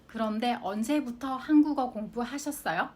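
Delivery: 그런데 언제부터 한국어 공부하셨어요 run together quickly at natural speed. Shown as a demonstration. Teacher repeats the example at native speed, quick and natural. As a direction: say it fast like a native would. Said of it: "いつから韓国語の勉強されましたか".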